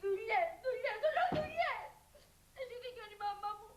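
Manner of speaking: sobbing reproach, voice breaking; crying complaint. Acted. Bride to fiancé, blaming his work, sobbing. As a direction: wail it through tears.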